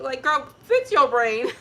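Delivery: playful inner voice saying fix it; laughing mock scold. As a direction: scold yourself through laughter. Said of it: "Spirit had to, like".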